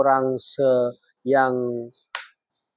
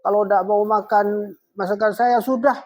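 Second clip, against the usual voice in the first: high-pitched angry wife, acted; istri marah; 9 semitones higher than usual. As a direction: snap at your husband in a high, fussy voice. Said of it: "istri yang marah, kasar pada suaminya". (istri marah-marah dengan nada tinggi)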